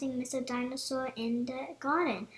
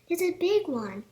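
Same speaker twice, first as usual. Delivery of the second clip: higher and louder, pointing it out; excited pointing; 5 semitones higher, 7 dB louder than usual. A narrator's reading. Daddy Pig pointing out a big dinosaur, excited. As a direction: show George the big one.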